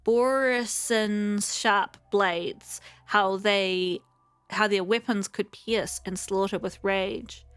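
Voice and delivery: measured storytelling read of a lament; poem reading. Acted. Streamer reading the Foxian lament aloud, in measured poem recitation. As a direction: recite it like an old ballad.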